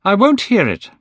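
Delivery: high, loud protest; cry out. A narrator's reading. Dorian crying out to stop Basil's words. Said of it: "cried Dorian".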